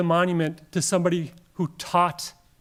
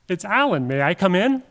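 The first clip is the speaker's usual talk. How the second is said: bad acting; 5 dB louder than usual. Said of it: "I'm a terrible actor".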